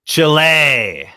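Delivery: Chile as CHEE-leh, Spanish style. Shown as a demonstration. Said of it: "How do you pronounce the country of Chile".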